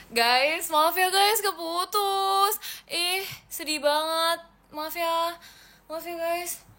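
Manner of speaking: high, pleading sorry with a catch of tears; real tearful apology to viewers after the stream cut out. Real, not acted. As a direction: beg the viewers' pardon, close to crying.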